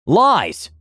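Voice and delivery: mock shout. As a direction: shout the word out. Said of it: "Aura shouted".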